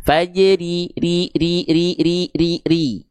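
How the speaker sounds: fajri then ri ri ri, thin and clear; repeated ri drill. Shown as a demonstration. Teacher drilling the thin ro sound for students. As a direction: drill ri over and over, crisp.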